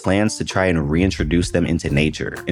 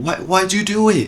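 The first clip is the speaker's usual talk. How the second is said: much higher, whining little beaver; squeaky beaver voice; 13 semitones higher than usual. Pretend. A beaver kid confronting the hunter, squeaky and hurt. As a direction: wail it like a tiny wronged critter.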